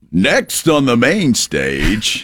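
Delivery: slow, drawn-out club announcer; strip club DJ voice. Pretend. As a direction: hype up the stage like a club DJ. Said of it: "Not Strip Club D J voice".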